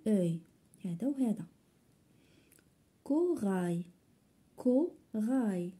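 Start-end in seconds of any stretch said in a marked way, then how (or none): 3.0-5.7 Corail twice, split slowly into two beats; syllable by syllable. Shown as a demonstration. Teacher locating the repeated sound, syllable by syllable. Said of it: "كنسمعوه في la deuxième syllabe".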